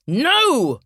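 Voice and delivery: put-on high, loud childish yell; child's yell. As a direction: shriek it like a stubborn kid. Child refuses louder.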